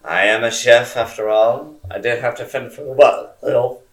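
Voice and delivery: talking with a dry mouth; words stuck on a dry tongue. Real, not acted. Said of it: "my mouth got really dry".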